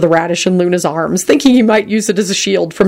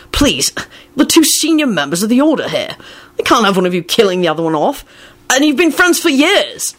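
pleading, rising higher at the end; desperate plea; 4 semitones higher than usual. A narrator's reading. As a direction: beg them desperately to stop. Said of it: "he added desperately".

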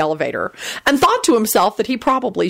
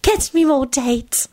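high, slow self-pleased boast; high-pitched pride; proud; 7 semitones higher, slower than usual. A narrator's reading. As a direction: add it smugly, drawn out. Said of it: "Sylvia announced proudly".

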